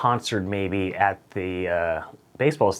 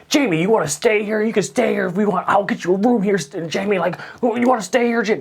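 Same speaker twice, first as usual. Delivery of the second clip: much higher, eager sycophant voice; high, keen yes-man; fawning assistant; 10 semitones higher, 4 dB louder, faster than usual. Retold or imitated. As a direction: suck up to Jamie in a high eager voice.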